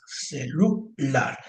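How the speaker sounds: "celular" slow and split, ending on a held LAR; stressed last syllable. Shown as a demonstration. Teacher confirming where the force falls, "celular" syllable by syllable, stress on LAR. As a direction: separate ce, lu, LAR and lean on the last. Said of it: "Ahí le cae la fuerza".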